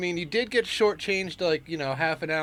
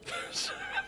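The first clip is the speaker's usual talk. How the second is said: stifled laugh; 12 dB quieter than usual. Real, not acted. Cracks up at own joke.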